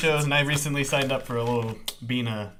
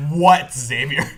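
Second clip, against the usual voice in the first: mad; 6 dB louder, much slower than usual. Retold or imitated. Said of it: "You sounded so mad".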